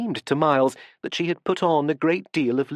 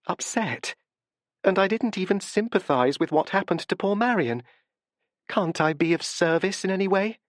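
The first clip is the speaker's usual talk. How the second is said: gentle, earnest apology; soft sincere voice, quietly apologetic; 5 semitones higher than usual. A narrator's reading. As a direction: speak softly and sincerely. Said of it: "in her usual soft voice of sincerity".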